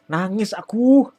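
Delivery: loud, high, drawn-out mock wail; mock crying. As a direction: cry out slowly, playing up the tears. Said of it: "nangis gue".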